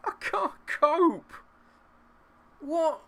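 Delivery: high pained laugh-cry, slow; exasperated laughing. Real, not acted. Gamer laughing in despair after another miss.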